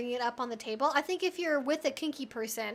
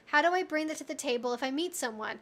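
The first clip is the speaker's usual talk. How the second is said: normal talking voice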